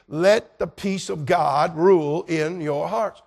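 slow, loud, every word weighted; emphatic preaching. Real, not acted. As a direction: preach it home, drawn out. Climactic preaching line.

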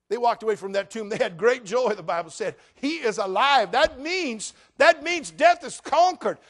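loud, high, climbing pulpit cry; full-force revival preaching; fiery preaching. Acted. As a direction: preach it out to the whole congregation.

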